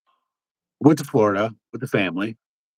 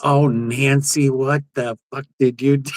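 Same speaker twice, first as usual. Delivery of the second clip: exasperated friend; 4 semitones higher than usual. Retold or imitated. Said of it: "this lady comes in behind her, and she's like".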